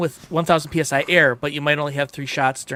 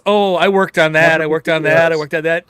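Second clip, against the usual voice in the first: mocking a show-off; 5 dB louder than usual. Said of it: "Listen to this flex".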